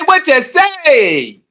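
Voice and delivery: stretched slow and mocking; very slow mocking challenge; drawn-out taunt. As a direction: drag each word out to needle him. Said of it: "taunting repeat".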